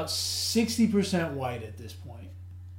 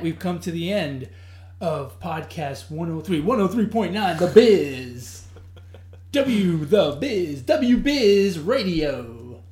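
announcer read, slow on the call letters; radio voice; 3 dB louder, slower than usual. Shown as a demonstration. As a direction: sign off like a DJ. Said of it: "You like my radio voice?".

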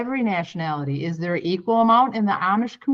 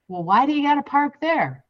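mock pushy Amish man; 8 semitones higher than usual. Acted quarrel with Amish man.

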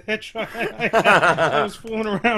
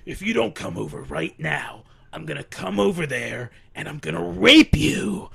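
put-on drunk guy demanding. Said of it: "He's like".

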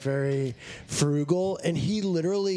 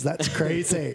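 catchphrase; slower than usual. Shown as a demonstration. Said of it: "That's my catchphrase".

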